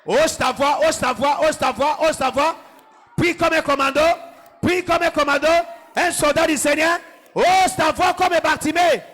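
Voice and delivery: rally the church like a commander; fervent preaching. Acted. Pastor drives the crowd to shout down their problems.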